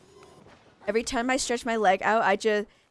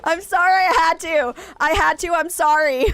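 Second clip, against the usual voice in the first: laughing apology; 7 semitones higher, 7 dB louder than usual. Real, not acted.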